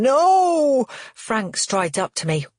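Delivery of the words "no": escalating shouts, each higher and louder; repeated no growing into a scream; rising shout. Acted. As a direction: build the no's into a full panicked yell. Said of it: "he yells again".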